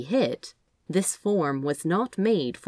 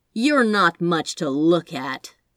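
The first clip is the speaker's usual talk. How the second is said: loud, snide, sneering tone; 5 dB louder than usual. The angel eyes Crowley up and down, speaking snidely. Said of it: "said the angel snidely".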